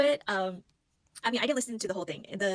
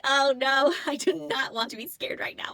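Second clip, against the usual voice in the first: much higher and louder, a frightened cry; scared; 7 semitones higher, 10 dB louder, slower than usual. Retold or imitated. Creeped out at the cabin at night, frightened cry. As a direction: cry out in sudden fear, slow on the second line. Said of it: "this feeling of fear in my body".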